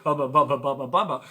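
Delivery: loud, goofy leering hubba bubba; teen boy mock-ogling a girl in a bra, loud and goofy; love-struck hubba bubba. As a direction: ham up a lovestruck boy's ogle.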